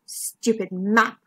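slow, sulky grumble; grumbling. Acted. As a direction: grumble it, drawn out. McMeer mutters, embarrassed, at the map.

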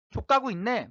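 mildly acted scornful swearing; snide muttered curse. Interviewee inwardly cursing the researcher, mock scorn. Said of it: "막 욕하고 막 속으로 막 삐딱하게".

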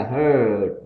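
"heard" with a long, slightly curled er. Shown as a demonstration. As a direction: curl the tongue slightly through "heard". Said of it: "âm ơ hơi cong nữa". ("heard" âm ơ kéo dài, hơi cong lưỡi)

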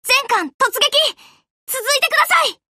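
rally the fleet to charge; urgent charge call; commanding charge. Acted.

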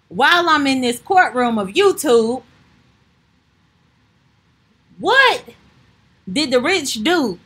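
hammed-up lawyer grilling; defense attorney demanding answers; mock courtroom speech.

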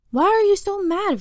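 put-on high-pitched kid's question; protesting question. A narrator's reading. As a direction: ask it with pitch jumping right up. Kid questions the angry babysitter.

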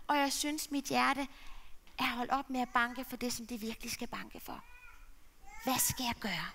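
a son voicing his despair, lightly; lightly played lonely son; lightly voiced sad son. Gino's lament in character.

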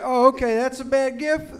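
loud, high, offended father defending the gift; indignant dad. Retold or imitated. Dad indignantly defending his Slinky gift to his son, loud and high. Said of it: "my dad was like".

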